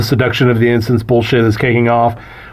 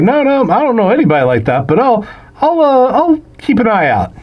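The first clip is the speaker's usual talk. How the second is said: nervous denial; 9 semitones higher than usual. Retold or imitated. Frank lying nervously to police.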